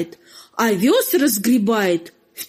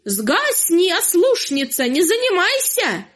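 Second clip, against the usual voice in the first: commanding rooster; 6 semitones higher than usual. Acted. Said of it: "велит ей".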